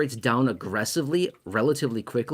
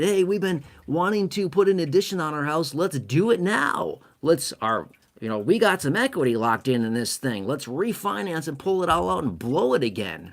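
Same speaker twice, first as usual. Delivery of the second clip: higher, eager mock homeowner voice; 4 semitones higher than usual. Homeowner telling spouse to cash out, giddy mock voice. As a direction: play a giddy homeowner itching to spend.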